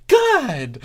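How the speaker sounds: high, loud chirpy finish; bright, chirpy. Shown as a demonstration. Narrator ending the threat, high chirpy. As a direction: snap back cheerful. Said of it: "settled after threat".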